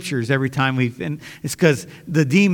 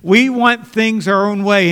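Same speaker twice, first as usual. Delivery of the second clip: raised, defiant voice of a world that wants no God; higher and louder, pushing God away; defiant outcry; 4 semitones higher, 3 dB louder than usual. Acted. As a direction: throw it back as a stubborn refusal. Preacher voicing the world's defiance.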